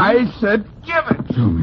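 high, insistent order; insist, losing patience; angry demand. Acted. Cecil demands his book back from Broadway, angry.

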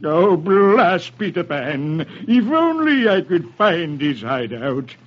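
slow, drawn-out villain's curse; frustrated pirate villain; Captain Hook snarling. Acted. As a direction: snarl it slowly, stretching the words. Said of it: "Hook snarls".

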